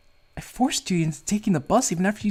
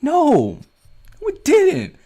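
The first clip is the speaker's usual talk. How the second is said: loud, higher, furious ranting; angry outburst; 6 semitones higher, 6 dB louder than usual. Acted. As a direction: yell it out in helpless rage. Character furious over girlfriend's ordeal.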